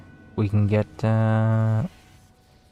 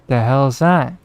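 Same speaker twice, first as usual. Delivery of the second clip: shocked; 5 semitones higher, 8 dB louder than usual. Real, not acted. Sudden surprise in game.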